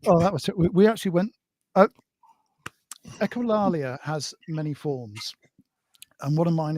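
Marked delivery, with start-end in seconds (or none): 3.2-5.3 slow whispered aside; hushed, slow confession. Real, not acted. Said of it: "unvoiced whisper".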